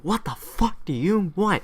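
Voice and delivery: high-pitched mock indignation; annoyed American sailor. American sailor answering a British sailor, indignant and high. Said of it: "American sailors like".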